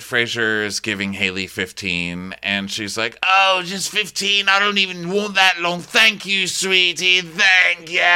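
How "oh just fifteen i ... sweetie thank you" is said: higher, syrupy sweet thanks; imitating a fake-sweet guest; mock saccharine sweetness. Haley thanking Fraser, syrupy sweet.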